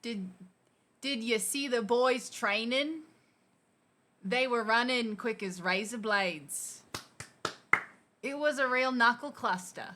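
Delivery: learner's careful Aussie read; Aussie accent with a questioning tag at the end; Australian accent. Shown as a demonstration. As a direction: read it out in your best Australian. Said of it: "have a go in your Australian".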